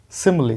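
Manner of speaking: सिमिली with short "i" sounds; model pronunciation. Shown as a demonstration. Teacher shows students the word, carefully pronounced सिमिली. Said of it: "इसी को देख के मैं पढ़ रहा हूँ".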